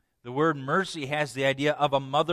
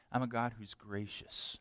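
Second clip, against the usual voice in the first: whispered God; 5 semitones lower, 11 dB quieter than usual. Acted. Preacher whispering God's words to the congregation, soft. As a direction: breathe the words like a secret promise.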